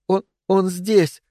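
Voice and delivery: high, slow, shaky frightened whisper; trembling whisper. A narrator's reading. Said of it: "дрожащим шёпотом сказала она".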